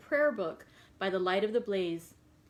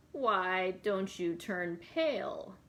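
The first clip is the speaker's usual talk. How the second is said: gypsy voice; 2 semitones lower, much slower than usual. Acted. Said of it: "I'm gonna try to do a little bit of a gypsy voice".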